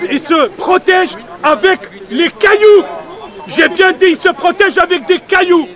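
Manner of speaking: impassioned, indignant protest; real anger. Real, not acted. Protester pleading for both peoples to live together, angry. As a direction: press each phrase out with indignation. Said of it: "Je suis en colère, excusez-moi".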